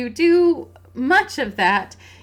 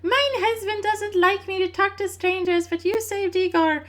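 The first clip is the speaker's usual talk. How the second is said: slipping into a bad Scottish accent, higher; an accidental Scottish lilt for a Transylvanian lady; botched Scottish accent; 7 semitones higher than usual. Player voicing Bella, comic botched Scottish accent. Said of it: "suddenly I've gone all Scottish in Anna's terrible accent".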